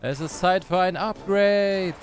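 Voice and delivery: slow, drawn-out hero announcement; mild slow, epic proclamation; grand announcement. Pretend. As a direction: announce the upgrade like a god. Announcing Thor upgrade, first take.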